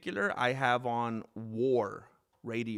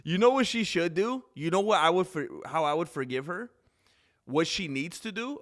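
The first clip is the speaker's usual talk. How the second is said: excited; 5 semitones higher, 6 dB louder than usual. Real, not acted. Excited rant about fighter.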